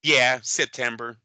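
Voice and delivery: slow, lightly mocked Tank mumble; Tank's odd answer. Host imitating Tank answering about Floyd, slow. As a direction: draw out yeah September like Tank. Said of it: "Tank sounds like he says".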